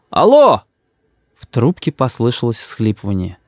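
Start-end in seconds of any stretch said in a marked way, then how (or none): 0.1-0.6 громкое «Алло!» выше, настойчиво; зовёт в телефон снова, громче; громче крик. A narrator's reading. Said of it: "закричал я в трубку". (ещё громче «Алло!»)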